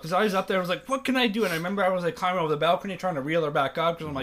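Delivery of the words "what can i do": high-pitched retold helplessness; mock-panicked plea; helpless panic. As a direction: act out being at a loss. Retelling helplessness on the balcony.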